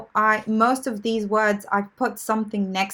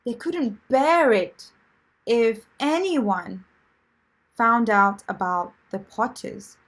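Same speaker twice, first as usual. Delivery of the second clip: slow, deliberate reading. Shown as a demonstration. Teacher reading the sentence slowly for the class. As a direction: read it slowly so students follow. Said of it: "try your best to understand what bear it".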